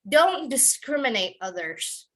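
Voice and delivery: Don't stressed, discriminate said dis-KRIM-in-ayt slowly; slow example sentence. Shown as a demonstration. Teacher slowly modeling an example sentence. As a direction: give Don't the weight and say it slowly. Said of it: "we would say".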